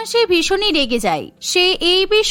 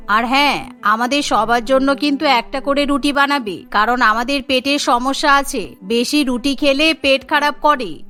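put-on lower, firm older woman's voice; stern mother-in-law; 5 semitones lower than usual. Mother-in-law tells the daughter-in-law what to cook, in a lower stern voice. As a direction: talk down to the new bride, lower.

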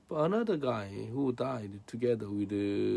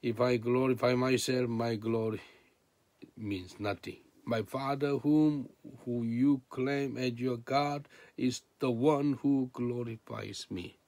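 voicing Jesus' answer; 2 semitones higher, 5 dB louder than usual. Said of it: "Jesus answered".

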